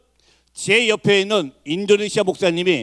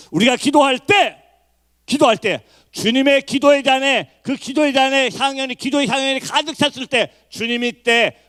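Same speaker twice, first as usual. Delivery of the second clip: preaching at full force; 5 semitones higher than usual. Real, not acted. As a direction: build fervently toward the promise. (힘주어 외치는 설교)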